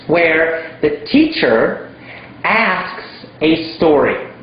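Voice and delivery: slow, leaning on the word "asks"; stress on asks. Shown as a demonstration. Teacher stressing "asks a story" to learners. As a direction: draw out "where the teacher asks a story", punching "asks". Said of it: "I did not say tells a story".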